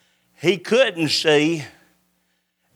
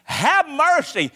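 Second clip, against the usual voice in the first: high, slow plea for mercy; crying out; 8 semitones higher than usual. Retold or imitated. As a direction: stretch the plea upward. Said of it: "he began to cry out".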